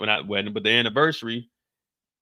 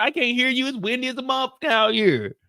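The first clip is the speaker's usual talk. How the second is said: high shout over wind; mock shout; 6 semitones higher, 6 dB louder than usual. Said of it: "you gotta speak up".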